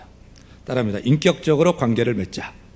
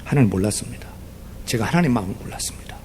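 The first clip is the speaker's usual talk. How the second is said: whispered confession; 3 semitones lower, 5 dB quieter, faster than usual. Retold or imitated. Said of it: "엉엉 울어요".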